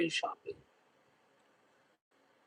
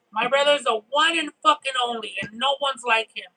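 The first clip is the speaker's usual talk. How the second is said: proud excited praise; 3 semitones higher than usual. Retold or imitated. Sister's grateful praise, retold.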